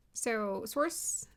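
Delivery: ordinary talk, nothing marked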